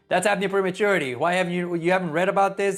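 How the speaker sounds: fast, impatient put-down from a condescending doctor; condescending clinician. Retold or imitated. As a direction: brush off the new nurse like a mild jerk. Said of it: "basically say".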